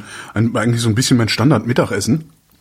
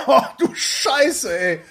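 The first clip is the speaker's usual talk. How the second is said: breathless laugh through burning mouth; pained laughing; 11 semitones higher, 3 dB quieter, much slower than usual. Real, not acted. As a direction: laugh and groan from the heat. Burning mouth from spicy soup.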